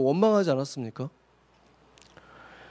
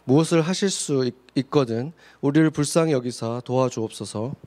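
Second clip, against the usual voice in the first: measured, even-toned Bible reading; formal recitation of scripture; 5 semitones lower than usual. Acted. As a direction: read the verses out evenly to the congregation. Reads scripture aloud in turns.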